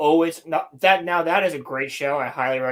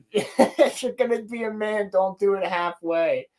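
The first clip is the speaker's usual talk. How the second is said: imitated Yusuke line; 4 semitones higher than usual. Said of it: "He goes".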